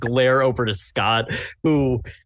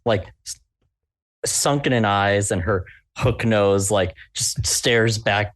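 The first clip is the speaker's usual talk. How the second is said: ordinary talk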